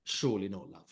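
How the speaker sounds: put-on low doubtful aside to the girlfriend; quietly asking if she's serious; hushed disbelief. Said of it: "And I'm like".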